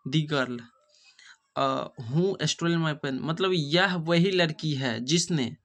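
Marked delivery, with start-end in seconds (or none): 0.1-0.6 put-on whispered "the girl". Shown as a demonstration. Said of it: "यहाँ हो जाएगा this". 1.6-3.1 slow reading. Shown as a demonstration. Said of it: "यहाँ हो जाएगा this".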